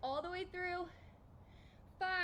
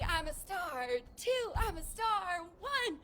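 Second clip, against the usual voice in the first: shouting while jumping; 5 semitones higher, 5 dB louder, slower than usual. Shown as a demonstration. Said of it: "if you scream".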